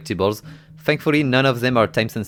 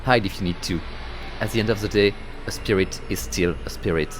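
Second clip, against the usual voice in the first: epic narration. Acted. Narrator guides the girl up the mountain, solemn. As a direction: narrate the climb like a legend.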